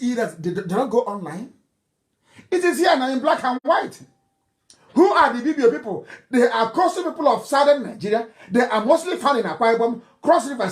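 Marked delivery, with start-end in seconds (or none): 2.5-8.3 laughing triumph. Real, not acted. Triumphant revelation.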